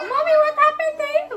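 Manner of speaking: high child voice imitating the kids; kids asking. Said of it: "Sabi lang ng mga bata".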